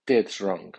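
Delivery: "Ted's" stressed strongly, falling after it. Shown as a demonstration. Teacher models the noun's accent for learners, stress on "Ted's". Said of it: "el nombre lleva acento fuerte".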